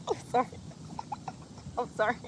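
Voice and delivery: helpless giggly sorry; trying to recover from a laughing fit; laughing apology. Real, not acted. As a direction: apologize through real laughter. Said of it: "for me to be laughing like this".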